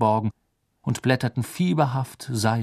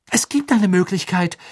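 beharrlich; 7 semitones higher, 7 dB louder than usual. A narrator's reading. Hermine beharrt auf einer Lösung.

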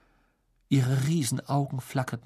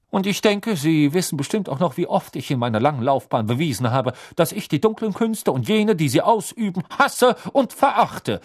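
high, loud, indignant cry; calling out; 7 semitones higher, 5 dB louder than usual. A narrator's reading. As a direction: declare it loudly, hating every word. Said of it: "rief Mister Crouch".

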